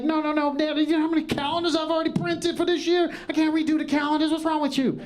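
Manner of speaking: high exasperated rant at his father; exasperated son. Retold or imitated. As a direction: rattle it off in disbelief at dad. Son arguing with dad over calendars.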